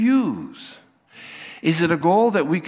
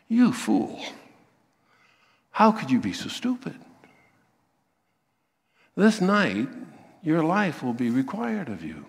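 scolding vocative. Retold or imitated. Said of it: "That's what happens here".

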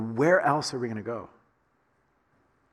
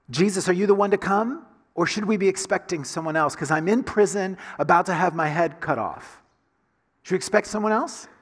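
higher, louder urgent questions; desperate prisoner's plea; 4 semitones higher, 4 dB louder than usual. Acted. John the Baptist in prison begging Jesus for an answer, raised and pleading.

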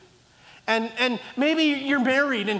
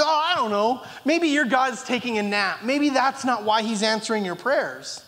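mocking. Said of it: "mocking thing".

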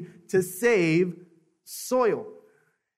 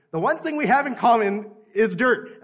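mock fervent quote; 6 semitones higher, 7 dB louder than usual. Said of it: "I heard dirt".

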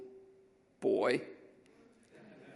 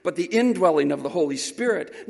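rising, louder preacher cadence; preaching build; 3 semitones higher, 7 dB louder than usual. Acted. Preacher lifting the congregation, building loud. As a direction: build each "not only" to a peak.

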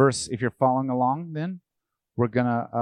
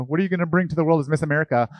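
pageant host; 5 semitones higher, 6 dB louder, faster than usual. Retold or imitated. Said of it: "That's the Miss America answer".

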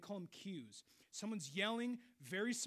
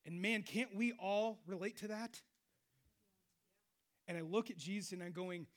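usual speaking voice

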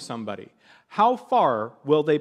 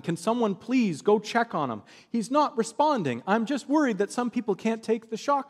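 higher-pitched, deferential worried request; very polite pleading; 7 semitones higher than usual. Retold or imitated. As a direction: imitate a worried man asking courteously. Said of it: "trying to be very polite".

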